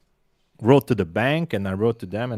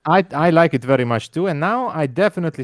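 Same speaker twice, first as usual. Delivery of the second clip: light Hungarian accent, words read as spelt; a hint of heavy Hungarian accent; mild Hungarian accent for fun; mock Hungarian accent. Shown as a demonstration. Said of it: "let me try this".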